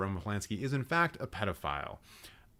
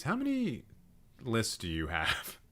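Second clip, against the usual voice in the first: exasperated disbelief; 3 dB quieter than usual. Real, not acted. Exasperated at yet another list.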